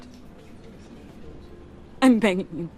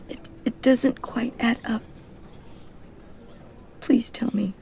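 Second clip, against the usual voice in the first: whisper; 5 dB quieter than usual. Acted. Hushed pleading at a funeral.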